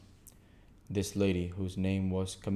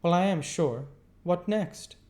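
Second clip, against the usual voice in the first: prim lady; 11 semitones higher, 5 dB louder than usual. Acted. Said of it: "I heard Sarah Pocket say".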